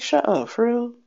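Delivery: high, stunned "for real?"; shocked disbelief. Retold or imitated. Hearing about her weight from the doctor, high shocked disbelief. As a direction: react like you can't believe it.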